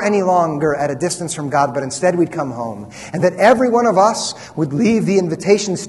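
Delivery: sincere, even-voiced closing prayer. Real, not acted. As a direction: address God earnestly on behalf of the congregation.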